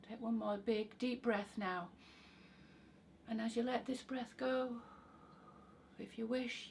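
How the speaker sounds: calm, soft guided relaxation voice; guided meditation. Acted. Meditation guide settling listeners with breaths, guided meditation. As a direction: ease them down gently, pausing between phrases.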